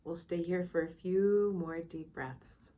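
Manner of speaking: soft, unhurried meditation guide with long pauses; calm, measured meditation voice; guided meditation. Real, not acted. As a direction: ease listeners into quiet reflection, leaving space between phrases.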